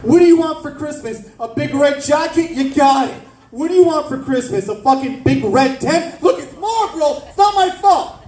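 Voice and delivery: mock generous smoker parent; smoker relative voice. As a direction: boast about free Marlboro gifts. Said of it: "They're like".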